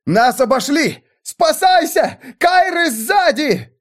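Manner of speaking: very high, slow terrified cries; panicked shriek. A narrator's reading. Servants fleeing in terror, high panicked cries. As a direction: shriek that they're surrounded.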